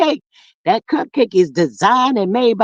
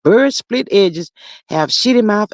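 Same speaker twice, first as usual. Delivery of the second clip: slow reread; 3 semitones lower, slower than usual. Retold or imitated. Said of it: "At, ooh".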